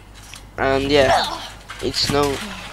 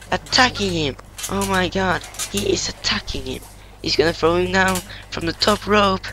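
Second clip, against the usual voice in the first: wrestling commentator. Pretend. Kid calls the match live.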